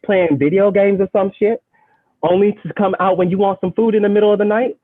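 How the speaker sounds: put-on amateur British accent, pitched a bit high. Poet scolds the ants in her kitchen, in a shaky attempt at a British accent. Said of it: "I have to do this in a British accent".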